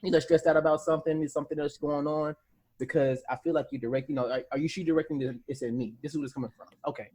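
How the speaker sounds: low, soft, careful inquiry; controlled questioning. Acted. Asking if the other is stressed, calmly controlled. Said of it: "I ask the question".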